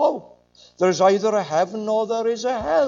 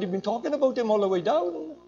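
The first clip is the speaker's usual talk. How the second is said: quick, raised-pitch telling-off; fed-up reproach; 4 semitones higher, faster than usual. Retold or imitated. Little lady challenges blasphemer on the bus, quick high reproach. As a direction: imitate a little lady setting him straight, quickly. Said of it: "she'd had enough".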